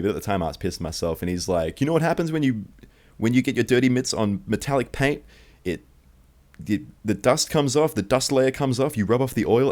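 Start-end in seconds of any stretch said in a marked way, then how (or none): 1.8-9.7 higher-pitched imitation of a scolding adult; mock scare tactics. Cleaner scaring a kid over his car paint, mock-threatening. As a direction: lecture a kid to frighten him, acted. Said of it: "he was just scaring me".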